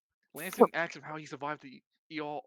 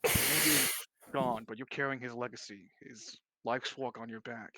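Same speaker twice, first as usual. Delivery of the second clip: earnest consoling; 3 semitones lower than usual. Acted. Character consoles departing creature in play.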